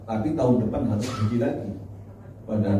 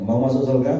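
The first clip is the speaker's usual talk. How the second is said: louder; 2 semitones higher, 5 dB louder than usual. Real, not acted. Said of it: "Yang kurang kencang".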